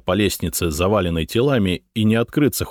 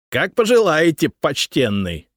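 mocking; 9 semitones higher than usual. A narrator's reading. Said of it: "послышался глумливый голос".

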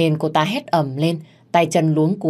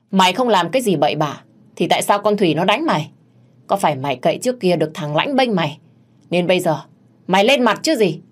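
angry accusation; 2 semitones higher than usual. Acted. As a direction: accuse the maid, building at the end. Mistress scolds and accuses the maid. (mắng mỏ buộc tội)

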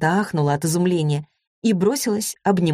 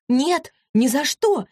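shouting; 10 semitones higher, slower than usual. A narrator's reading. Vasilisa refuses to stay with Denis, shouting high. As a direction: cry it out, pitched way up and drawn out. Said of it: "закричала Василиса".

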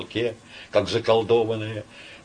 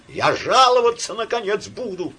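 tearful wail; 12 semitones higher, 4 dB louder than usual. A narrator's reading. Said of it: "завопил, плача, Василиса".

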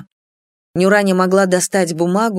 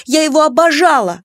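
high, loud, passionate cry; stamping protest; 9 semitones higher, 5 dB louder than usual. A narrator's reading. Daughter defending her adored father, passionate shout. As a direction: shout it in furious defiance. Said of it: "топнула ногой Клара".

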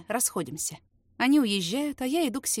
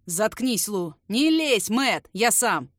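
louder sharp commands; harsh shout; 6 dB louder, much slower than usual. Acted. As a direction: snap orders to stop them. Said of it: "жёсткий окрик Райта".

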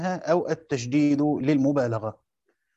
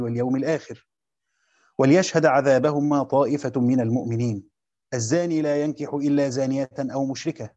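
measured, melodic chant of the verses; Quran recitation; 3 semitones lower than usual. Acted. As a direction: recite each verse with tajweed, pausing at verse ends. Teacher recites the verses first. (تلاوة مجودة هادئة)

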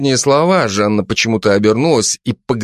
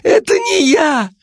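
shrill high panicked shout; high shrieked denial; slower than usual. Acted. Кулебяка кричит Жанне, что это не он, высоко. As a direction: scream your innocence.

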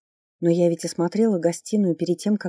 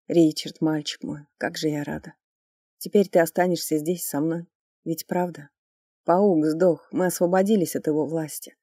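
put-on drunk crying. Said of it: "И пьяно всхлипнула".

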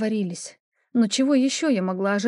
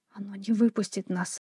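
whisper; 5 dB quieter than usual. Acted. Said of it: "прошептала".

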